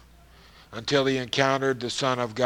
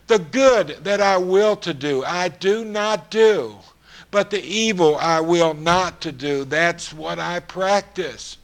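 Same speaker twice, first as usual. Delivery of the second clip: louder and higher, slowing on the last words; impassioned quote of Paul; 4 semitones higher, 4 dB louder than usual. Acted. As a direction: press each line like a confession. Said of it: "Paul knows how we feel".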